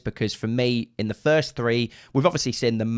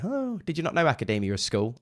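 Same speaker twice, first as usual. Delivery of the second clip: higher, mock-incredulous "oh"; mocking commenters; 4 semitones higher, 5 dB quieter than usual. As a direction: imitate people laughing at a mistake. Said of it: "people laugh at me and say".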